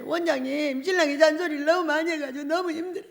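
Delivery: lightly imitated complaining wife. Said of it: "맨날 정의가 자기 신랑 오면 이렇게 말해". (살짝 흉내 낸 아내의 하소연)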